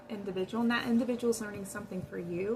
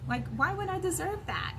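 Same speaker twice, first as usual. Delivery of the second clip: hurt confrontation; 3 semitones higher, 3 dB louder than usual. Retold or imitated. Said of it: "It's like".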